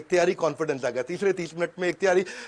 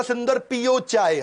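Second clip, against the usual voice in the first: slow, stretched पियो चाय; drawn-out ad pun; 5 semitones higher, slower than usual. Retold or imitated. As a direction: land the pun on पियो with relish. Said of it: "CEO बना तो बोला".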